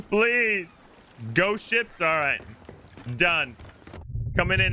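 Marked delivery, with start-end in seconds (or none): 0.0-0.9 lightly voiced pirate, lower and begging; pleading pirate captain. Begging crewmate Thramus for mercy, in a low pirate voice. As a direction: beg for mercy like a cursed old sea captain.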